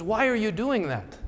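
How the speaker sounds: high, swooping mock French accent. Seatmate puzzled by handwritten cards, high mock French accent. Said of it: "in kind of this French accent".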